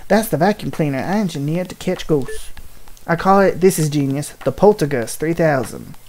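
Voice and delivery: put-on That's the vacuum cleaner in a light, folksy Southern old-man voice; proud old inventor, lightly Southern; reading the inventor's boast in a light Southern accent; a light southern professor. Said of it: "a super southern accent".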